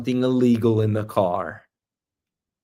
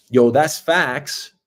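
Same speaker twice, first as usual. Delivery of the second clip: slow respectful agreement; slower than usual. Retold or imitated. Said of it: "When somebody says".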